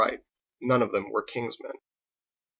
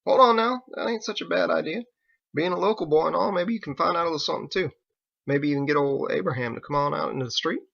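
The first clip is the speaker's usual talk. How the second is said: a hint of a higher drawling local; easygoing country sailor, slightly higher; lightly voiced Biggs; 5 semitones higher, faster than usual. Biggs stopping Harold from going down, light country voice.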